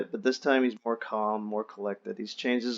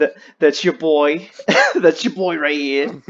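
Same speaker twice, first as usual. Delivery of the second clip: laughing; 5 semitones higher, 8 dB louder than usual. Real, not acted. Bragging joke about himself.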